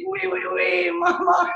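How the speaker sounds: high, drawn-out mock sob; mock wailing. Retelling own reply to partner's mother, mock high wail. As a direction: wail it like a crying child, hammed-up.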